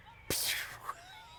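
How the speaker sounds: short wordless puff of a shot; imitated shot noise. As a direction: make a quick airy gunshot noise. Mimics shooting at a leaf.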